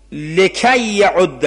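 لکی یعد read slowly, lekay with a clear final ay; slow careful recitation. Shown as a demonstration. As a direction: spell out لکی يعد, lekay not lakin. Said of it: "لکن اشتباه ها".

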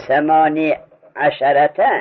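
ثمانی عشرته with a long "-nee" before عشرته; slowly, ثمانی with no vowel after its ya; sukun on the ya. Shown as a demonstration. Teacher quizzing students on the rule, ya with sukun. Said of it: "یا را به سکون بخوانیم".

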